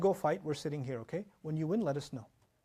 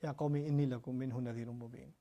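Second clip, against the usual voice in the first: tender warning; 4 semitones lower, 4 dB quieter than usual. Retold or imitated. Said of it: "turn to them and speak to them".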